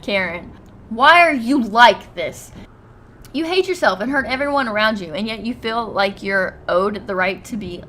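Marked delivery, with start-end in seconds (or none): 0.9-5.1 exasperated. Real, not acted. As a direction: drag out "why" loud and fed up. Exasperated at Karen's insults.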